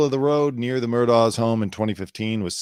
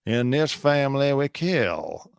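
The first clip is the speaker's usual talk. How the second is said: quieter menacing creed; 5 semitones higher, slower than usual. Pretend. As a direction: let it sink in, darker. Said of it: "Or was it all about Stephen Smith?".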